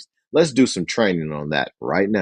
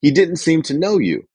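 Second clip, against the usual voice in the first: hesitant assistant; 7 semitones higher than usual. Shown as a demonstration.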